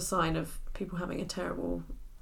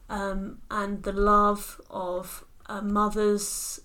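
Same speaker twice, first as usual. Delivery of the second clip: slow, earnest contestant voice; poised pageant answer; slower than usual. Pretend. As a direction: answer like a serene pageant hopeful. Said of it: "Do your pageant answer".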